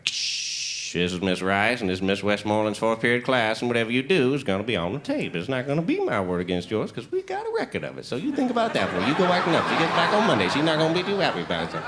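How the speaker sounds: hushed start, pitch swooping up in the warnings; old-lady schoolteacher impression; ancient substitute teacher. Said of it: "She was the oldest woman who ever lived".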